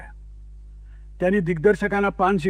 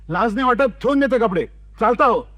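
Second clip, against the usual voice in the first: higher, raised furious scolding; angry director; 4 semitones higher, 3 dB louder than usual. Acted. Director scolding the dhobi for stealing, hot angry scolding. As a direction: throw him out in a temper. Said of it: "संतापाने".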